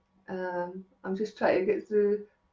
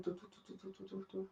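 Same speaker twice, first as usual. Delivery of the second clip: very soft run of "do-do-do"; imitated rambling flow; 22 dB quieter, much faster than usual. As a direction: imitate words rattling out, almost under your breath. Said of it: "once you get in that flow".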